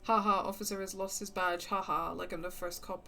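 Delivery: dry, spoken-out mock ha-has; sarcastic laughter. Officer joking off his lost badge, sarcastic. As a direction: brush off the teasing with fake laughter. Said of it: "laughs, uh, sarcastically".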